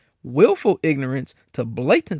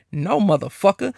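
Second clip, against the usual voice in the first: imagined black cop; 5 semitones higher than usual. Retold or imitated. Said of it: "what are you gonna say".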